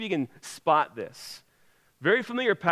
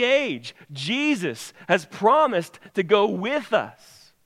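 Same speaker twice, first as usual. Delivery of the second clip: high, louder pulpit proclamation; emphatic preaching; 5 semitones higher, 4 dB louder, slower than usual. Real, not acted. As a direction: preach it out with rising force, stretching the last words. Preaches at full force.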